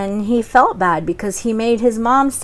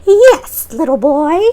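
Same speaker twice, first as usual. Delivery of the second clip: put-on high, slow old lady voice; 6 semitones higher, 4 dB louder, slower than usual. Funny old lady asking Jack for his cow, high slow voice. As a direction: put on a creaky-old-woman character, much higher.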